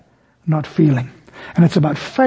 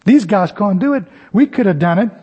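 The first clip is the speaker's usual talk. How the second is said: smug boast; 2 semitones higher than usual. Retold or imitated. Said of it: "What's Peter, James, and John thinking".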